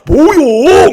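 loud, high Jeolla-dialect retort; Jeolla accent. Retold or imitated. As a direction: bark it like a cheeky Jeolla soldier. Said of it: "충청도 사람들하고 전라도 사람들하고". (전라도 사투리로 크고 높게 되받아치듯)

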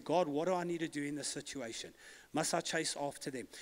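humble asking. Retold or imitated. Preacher voicing David inquiring of God, humbly quiet. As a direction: drop the volume as if asking privately.

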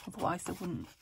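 hiccuping between words; speaking through hiccups. Real, not acted. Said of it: "excuse me, hiccuping".

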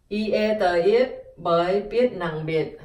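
Y, e, tờ, it, bờ, it, biết, nặng, biệt chanted piece by piece; sounding out. Shown as a demonstration. Teacher drilling biệt for learners. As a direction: build biệt up, then drop into the heavy tone. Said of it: "Phở đặc biệt".

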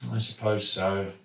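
ordinary delivery, nothing marked

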